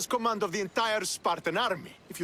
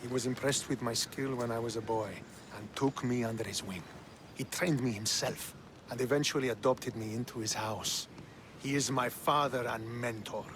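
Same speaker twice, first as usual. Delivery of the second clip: reverent sincerity; 3 semitones lower than usual. Acted. Son describing the father who adopted him, reverent. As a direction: speak with earnest pride in a mentor.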